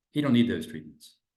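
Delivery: very loud, dismissive, can't-be-bothered tone. Example of a doctor's poor tone of voice; dismissive, can't-be-bothered tone. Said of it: "it's like, I can't be bothered".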